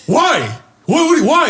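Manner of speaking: high, mock-shocked outburst; dad's incredulous questioning. Son retelling dad's reaction to the slur, incredulous. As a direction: imitate dad startled, pitch leaping up.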